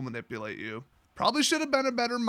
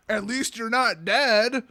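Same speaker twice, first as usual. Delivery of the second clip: slow, drawn-out mock comfort; mock consolation; 3 semitones higher, slower than usual. Answering a complaining friend, mock consoling. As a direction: console with hammed-up cheer.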